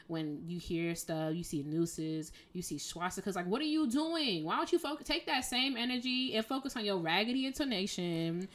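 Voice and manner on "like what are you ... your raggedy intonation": higher, pointed exasperation; indignant rant. Real, not acted. Musician scolding hateful players about their raggedy intonation, exasperated. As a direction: scold them, voice rising.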